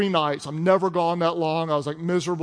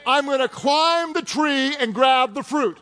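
laughing paraphrase; 6 semitones higher than usual. Retold or imitated. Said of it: "paraphrase of verse".

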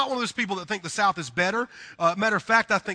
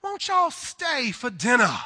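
Southern host invite; 5 semitones higher, slower than usual. Retold or imitated. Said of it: "what people do in the South".

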